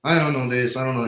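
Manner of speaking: a light hint of a Hispanic accent, unsure; a faint Hispanic accent on a helpless shrug; mimicking Hispanic accent. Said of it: "so I'm kind of mimicking her".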